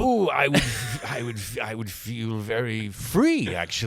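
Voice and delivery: laid-back cool cat puppet voice; cool beatnik. Pretend. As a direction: play it like a hip jazz cat. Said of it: "I don't even know what kind of voice I'm doing".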